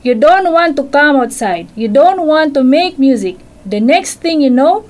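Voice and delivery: mother cricket telling her son off; scolding mother. Acted. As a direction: scold the little one like a cross mother. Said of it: "his mother scolded".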